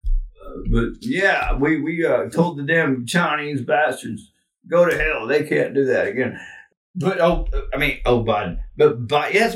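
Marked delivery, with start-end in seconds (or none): 0.1-6.4 lightly voiced Southern-drawl politician; a loose, folksy presidential impression; a hint of Clinton's easy drawl; Bill Clinton voice as Obama. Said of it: "that's my Bill Clinton voice".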